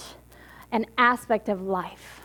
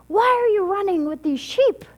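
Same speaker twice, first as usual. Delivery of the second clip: higher-pitched, baffled demand; puzzled confrontation, pitched up; incredulous older lion; 8 semitones higher than usual. Acted. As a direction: ask it in mock disbelief.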